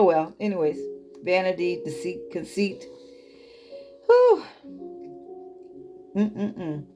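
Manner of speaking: ordinary talk, nothing marked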